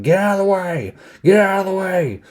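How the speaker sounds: high-pitched mock scream; Loomis screaming. Loomis screaming at kids to clear out, mock scream. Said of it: "He's screaming at kids".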